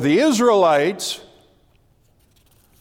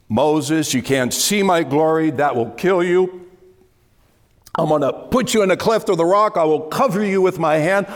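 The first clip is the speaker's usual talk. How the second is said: raised, quick, commanding voice of God; 3 semitones higher than usual. Acted. Preacher voicing God speaking to Moses, commanding. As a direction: speak as God promising protection.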